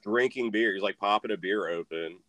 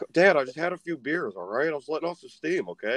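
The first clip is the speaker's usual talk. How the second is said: protesting son; 4 semitones higher than usual. Retold or imitated. Son making excuses to his dad.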